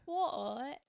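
tentative English-accent "what?"; amateur English accent; attempted English accent. Shown as a demonstration. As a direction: try a small, questioning English accent. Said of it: "trying to do her English accent".

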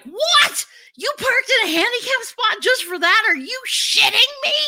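high outraged shout; freak out. Retold or imitated. Confronting the man in the handicap spot, high outraged shout. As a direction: yell it in furious disbelief. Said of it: "So I freak out".

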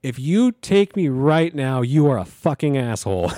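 mild mock yell, slowed down; retold yell. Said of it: "I yell at God".

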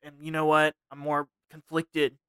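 lightly voiced alien shopkeeper doing a faux British-American accent; a hint of a weary, brooding Watto; Reboot Watto. Podcast bit, Watto greets co-host Alan, lightly voiced. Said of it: "I'm Reboot Watto".

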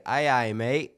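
tentative put-on European accent; half-hearted accent attempt. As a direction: have a go at a foreign accent. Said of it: "What they say?".

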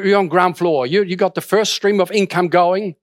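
ordinary talk, nothing marked

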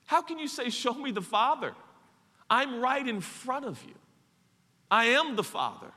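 mildly exasperated teacher; a little exasperated. Acted. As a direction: press each point in pained disbelief. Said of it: "now getting a little exasperated".

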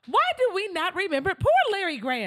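high, loud mock pity; mock lament. Friend defending a forgotten singer, mock lament.

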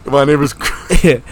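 a hint of Vin Diesel's Groot, slowed down; mock Groot voice, unhurried. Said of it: "It's just Vin Diesel's voice".

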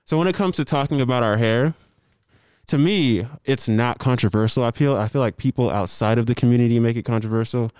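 slightly winded; talking a bit out of breath. Real, not acted. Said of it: "I'm out of breath for some reason".

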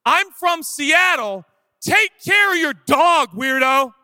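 high, loud, slow mock scolding; hammed-up judgmental shout, dragged out; mock translation of a stranger's scolding look; judgmental local.

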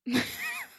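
quiet, high mock laugh; imitated dragon laugh. Podcaster mimics the dragon's laugh, mock laughing. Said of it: "is him just laughing".

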